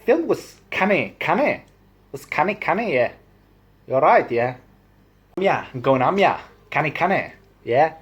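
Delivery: high, swooping Newcastle lilt; sing-song Newcastle accent; Geordie accent. Shown as a demonstration. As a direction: do a chatty Geordie. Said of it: "Canny in Geordie means".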